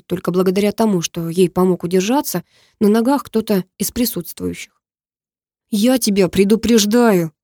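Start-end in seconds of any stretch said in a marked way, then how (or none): none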